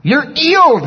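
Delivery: put-on high English-accented healing shout; mock English accent. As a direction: drop the H in a rough English accent. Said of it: "That's how he said healed".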